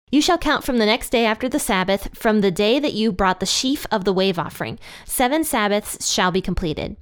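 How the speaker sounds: steady, measured Bible reading; scripture reading. Acted. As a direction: read the verses aloud solemnly. Reads Leviticus passage aloud.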